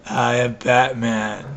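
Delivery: lightly voiced gravelly-free Batman, slow; a hint of Batman, drawn out slowly. Friend asks him to say the line, a light slow Batman. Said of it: "He thinks I sound like Batman".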